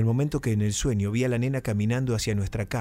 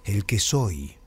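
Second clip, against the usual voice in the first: voice from beyond the grave; 2 semitones lower, much slower than usual. Retold or imitated. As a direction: intone it like something speaking from the grave. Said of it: "con una voz casi de ultratumba".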